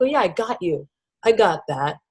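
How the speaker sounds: tender, soothing, gentle, soft, nurturing tone. Showing how to speak kindly to oneself: gentle, nurturing, soft. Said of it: "a really gentle, nurturing, gentle, soft".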